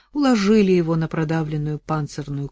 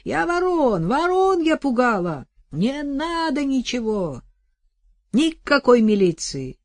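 high, slow pleading calls; calling out; 7 semitones higher, 3 dB louder, slower than usual. Acted. Вдова кричит соседке, высокий голос. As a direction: call it across, pleading.

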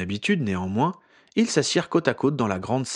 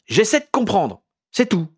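louder, higher frustrated cry; shouting; 10 semitones higher, 6 dB louder than usual. A narrator's reading. Exasperated Harry shouts at Ginny, louder and higher. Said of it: "cria Harry".

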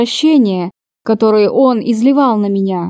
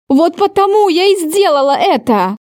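pitched higher, defending herself hard; voice rising; 7 semitones higher than usual. Acted. Heroine shouting back at her enraged lover, raised voice. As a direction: fire it back at him, voice climbing. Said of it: "Мой голос повысился".

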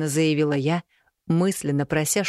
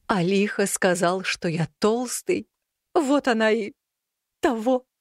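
complaining cat; 5 semitones higher than usual. A narrator's reading. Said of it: "пожаловался мне рыжий котяра".

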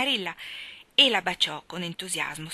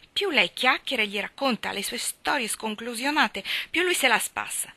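higher, loud call across the yard; 5 semitones higher, 8 dB louder than usual. A narrator's reading. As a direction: call the girl in sharply. Marilla calls Anna in.

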